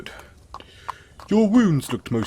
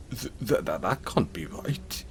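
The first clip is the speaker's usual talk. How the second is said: stunned whisper; 3 dB quieter than usual. Acted. Shocked at listener's abandonment.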